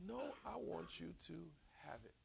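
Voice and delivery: soft, breathy, nearly voiceless; whispered contentment. Retold or imitated. Esau telling Jacob he has enough, whispered. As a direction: whisper it gently, at peace. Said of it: "He said".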